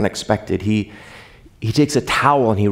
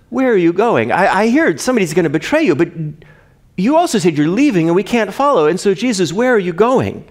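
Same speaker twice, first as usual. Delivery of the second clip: anxious Peter; 6 semitones higher than usual. Acted. Peter voiced questioning Jesus.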